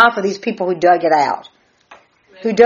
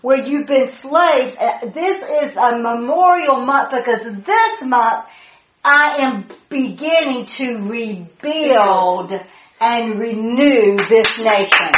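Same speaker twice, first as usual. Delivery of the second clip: voicing God; 4 semitones higher than usual.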